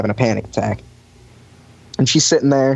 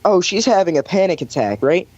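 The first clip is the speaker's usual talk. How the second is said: lightly voiced woman, pitched up; a higher voice for a quoted woman; imitated woman bystander; 6 semitones higher than usual. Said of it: "she goes".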